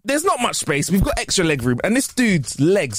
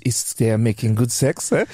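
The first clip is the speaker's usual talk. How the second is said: mock French accent; 2 semitones lower than usual. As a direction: play up a jokey French accent. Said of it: "I'm sounding more and more French".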